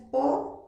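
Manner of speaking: POLLO split, "po... yo", with a Y; coastal yeísmo. Shown as a demonstration. Teacher telling coastal students how they say it, yeísmo with Y. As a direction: separate the syllables of POLLO, second one with Y. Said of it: "pronuncias con Y".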